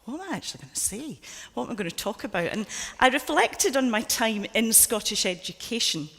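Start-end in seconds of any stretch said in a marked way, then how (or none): 0.0-2.5 mock panic. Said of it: "And then you think".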